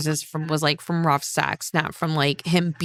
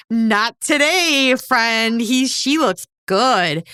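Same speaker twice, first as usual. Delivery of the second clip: teasing jock; 3 semitones higher, much slower than usual. Retold or imitated. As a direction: stretch it out to bait him. Friend voiced teasing Bobby.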